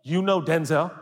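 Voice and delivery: high astonished question; can't believe what you heard; amazed disbelief. Acted. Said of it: "You'd be like".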